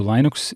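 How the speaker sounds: Linux said LINE-ux; Linux opening like "line"; American pronunciation. Shown as a demonstration. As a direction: say Linux with a long "eye" in the first syllable. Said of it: "you can't rename it to".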